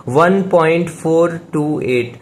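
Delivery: "One point four two eight" with each digit set apart; measured teaching read of "वन point four two eight", word by word. Shown as a demonstration. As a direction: say "four two eight" as three separate digits. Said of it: "हम ऐसे ही पढ़ते हैं".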